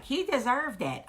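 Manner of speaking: high, swooping imitation of a daughter; indignant little girl. Mother imitating her daughter after the hit, indignant. Voicing daughter's smug retort.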